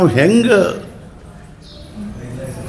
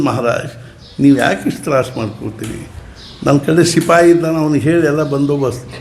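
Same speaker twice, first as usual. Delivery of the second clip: low, calm and reassuring, a bit quick; calm, soothing reply to an angry guru; 3 semitones lower, faster than usual. Retold or imitated. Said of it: "ಇಷ್ಟು ಶಾಂತವಾಗಿ ನಾ ಹೇಳ್ತಾನೆ".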